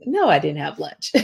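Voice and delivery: laughing through the line; laughing inner voice. Retold or imitated. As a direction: let the giggle break into it. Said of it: "inside, I was like".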